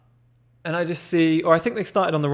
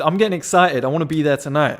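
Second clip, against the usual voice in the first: real excitement. Real, not acted. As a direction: let the thrill of the memory lift the voice. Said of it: "I'm getting excited talking about it".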